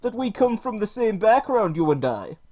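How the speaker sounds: hammed-up parody of a preachy feminist YouTuber; parody Lacey Green. Streamer mocks Lacey Green to chat, high mocking voice. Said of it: "For I am Lacey".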